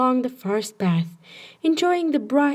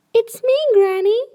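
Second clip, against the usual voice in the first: put-on higher, louder child's call at the door; little girl calling; 12 semitones higher, 6 dB louder than usual. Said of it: "she said".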